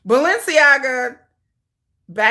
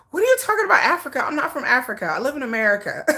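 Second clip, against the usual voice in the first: badly faked African accent; 3 semitones higher, much faster than usual. Protesting to viewers that she's American, horrible African accent. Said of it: "horrible African accent".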